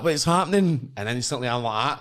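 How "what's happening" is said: high-pitched hearty host greeting; Paddy McGuinness. Retold or imitated. TV host greeting waiting contestants, high and hearty. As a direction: imitate a presenter greeting the room. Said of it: "Paddy McGuinness comes walking in".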